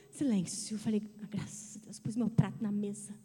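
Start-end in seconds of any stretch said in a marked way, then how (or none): 1.2-2.0 sussurrado, de alívio; suspiro aliviado. Retold or imitated. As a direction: solte como quem enfim descansa. Alívio com a casa em silêncio. (alívio sussurrado sozinha em casa)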